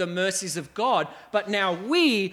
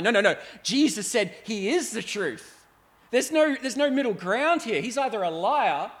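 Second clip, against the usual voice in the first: firm mock retort; 3 semitones higher, 3 dB louder than usual. Retorting to relativist.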